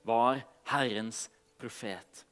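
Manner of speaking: measured Bible reading with pauses; solemn storytelling from scripture. A narrator's reading. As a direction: read the passage aloud to a congregation, phrase by phrase. Reads Bible passage aloud to congregation.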